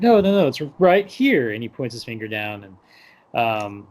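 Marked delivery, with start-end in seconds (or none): 0.0-1.5 high, louder flustered insistence; mock panic. Aladdin asked to find his country on the map, panicking. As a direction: imitate someone panicking to cover up. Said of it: "where he's panicking".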